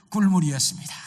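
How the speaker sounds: high, loud announcement; excited reveal. A narrator's reading. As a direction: burst out with the lucky result. Reveals the second lucky outcome. (높고 크게 기쁜 결과를 외치듯이)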